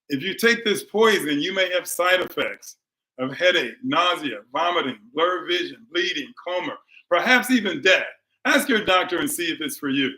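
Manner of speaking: lightly parodied commercial voice-over; mock drug ad disclaimer. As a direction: rattle off the side effects like a pill ad. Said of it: "I'm gonna say it the way I say it".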